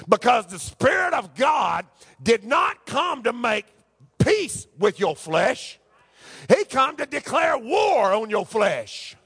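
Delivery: slow, emphatic pulpit delivery; forceful preaching. Acted. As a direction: preach it with drawn-out, driving emphasis.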